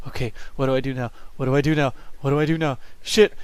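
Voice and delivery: flustered, building in pitch to a loud curse; mock panic. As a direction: repeat it with rising mock urgency. Acting out flustered clicking through windows.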